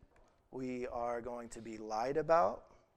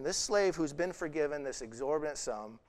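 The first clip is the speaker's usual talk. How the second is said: ordinary talk, nothing marked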